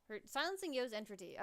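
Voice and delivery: dramatic novel reading; story narration. A narrator's reading. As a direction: read it like a storyteller. Reads visual novel narration.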